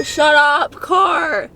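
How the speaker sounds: snapping loudly at the car; annoyed shout at the car. Real, not acted. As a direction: tell the car to shut up, real irritation. Yelling at noisy car.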